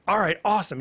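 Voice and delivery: a comic hearing he finally gets the gig, mildly excited. Retold or imitated. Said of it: "And he's all excited".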